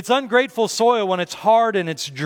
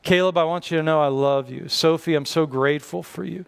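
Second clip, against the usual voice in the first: tender gratitude; 3 semitones lower than usual. Shown as a demonstration. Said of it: "I just need to say".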